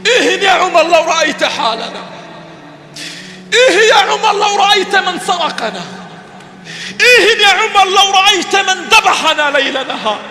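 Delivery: fervent repeated lament, building; preaching refrain. Acted. Preacher lamenting to Umar about today, fervent.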